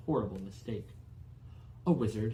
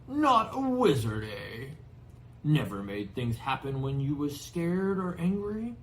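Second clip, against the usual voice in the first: amused Hagrid; 2 semitones higher, 4 dB louder than usual. Acted. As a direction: tease him kindly. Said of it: "Hagrid chuckled".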